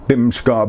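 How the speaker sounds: "bimshka" with the middle vowel dropped; syncopated form. Shown as a demonstration. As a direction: say "bimshka" in two syllables, bim-shka. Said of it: "syncopated short vowel dialects".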